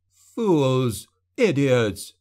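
put-on arrogant young man snarling insults; angry snarl. A narrator's reading. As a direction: snarl each insult as its own outburst. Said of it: "the man snarled, words stretched by a slight lisp".

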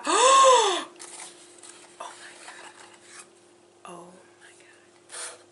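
sharp gasp then breathless whisper; stunned, barely getting words out; real awe at the gift. Real, not acted. Unboxing a beautiful gift.

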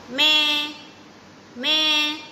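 goat bleat. Shown as a demonstration. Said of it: "A goat says".

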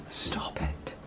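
very soft, whispered disbelief; hushed, stunned amazement; awed whisper. Real, not acted. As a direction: whisper it, lost for words. Overwhelmed by the bathroom tiles.

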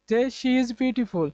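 very slow, word by word; slow example sentence. Shown as a demonstration. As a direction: read it out slowly for the class. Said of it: "এখানে she যদি বসিয়ে দেই". (ধীরে ধীরে উদাহরণ বাক্য পড়া)

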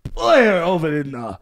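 put-on Russian accent with halting effort; mock straining Russian. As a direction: squeeze the words out as a caricature Russian. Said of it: "like they shitting".

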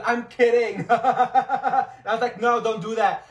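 quoted lines through laughter; laughing. Retold or imitated. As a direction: laugh while quoting them. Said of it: "he said / I was like".

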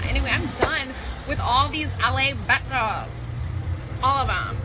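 loud, tipsy flirting. Acted. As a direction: come on strong, loud and sloppy.

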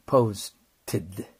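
posted with the o gliding into 'u'; o-u diphthong. Shown as a demonstration. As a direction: model posted with English 'ou', not a flat 'o'. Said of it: "お、うとなります".

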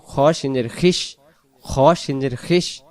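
খিস as one closed syllable, kh run into sh; খিস said "khish" with no break; joined sounds. Shown as a demonstration. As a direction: spell out, then join into খিস. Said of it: "খয়ের জেরটাকে সিনের সাথে মিলাই দেব".

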